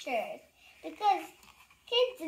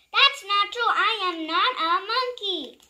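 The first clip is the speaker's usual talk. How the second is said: higher, loud denial; indignant protest; 5 semitones higher, 7 dB louder than usual. Acted. Reader protesting what the book made him say, indignant. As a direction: insist loudly you're not.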